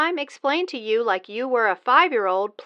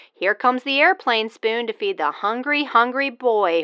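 airplane spoon game; slower than usual. Acted. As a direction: coo like feeding a toddler. Mock feeding a baby.

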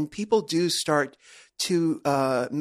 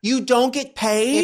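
high, drawn-out incredulous question; real disbelief; 7 semitones higher, 4 dB louder, slower than usual. Real, not acted. Host checking the shocking rule with guest, astonished. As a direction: stretch it out in astonishment. Disbelief on learning of unpaid walkouts.

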